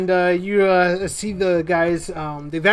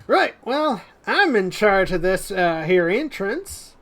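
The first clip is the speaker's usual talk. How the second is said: hint of Southern twang, losing its way; slipping Southern accent; slower than usual. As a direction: claim authority in a wobbly Southern accent. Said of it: "I went from Spanish to Southern".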